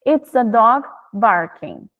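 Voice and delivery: very slow, each word laid out; slow model answer. Shown as a demonstration. Teacher modelling the child's reply, very slowly. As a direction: drag it out for a learner. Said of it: "a criança responde".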